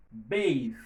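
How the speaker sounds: "Bathe" firm, ending on a buzzing th; voiced final th. Shown as a demonstration. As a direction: stress "Bathe" and voice its th. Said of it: "Les sonores". ("bathe" ak th sonò)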